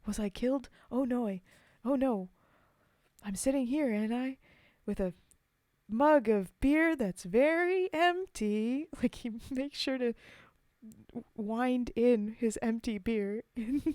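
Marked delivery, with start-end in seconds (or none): 0.1-8.9 mock storyteller. Poet hinting his mug is empty, playful mock storyteller. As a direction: ham up the pointed hint for a drink. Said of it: "He's like".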